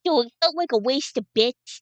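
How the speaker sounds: uber speak voice. Acted. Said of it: "me talking like this".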